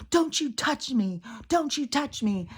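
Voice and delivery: high, shrill-pitched taunt in a put-on kid voice; mock whiny voice, repeated; childish mockery. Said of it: "childish, making fun of him".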